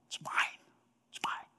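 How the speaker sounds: whispered, possessive and soft; a possessive whisper of a jealous brother; greedy whisper. Acted. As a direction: hiss it like you're hoarding it. Cain voiced, greedy whisper.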